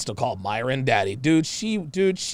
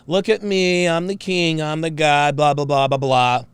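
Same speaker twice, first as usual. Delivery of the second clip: mocking quote. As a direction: parrot a self-important boast dismissively. Mockingly repeats clip's boastful quote.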